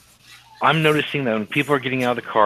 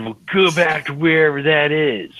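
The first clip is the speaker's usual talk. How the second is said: raised, higher voice imitating a heckler; mock yell; 5 semitones higher, 4 dB louder than usual. Witness quoting a heckler at a confused young man, mock yell. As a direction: retell the heckler's yell, only partly raised. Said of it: "started yelling at him".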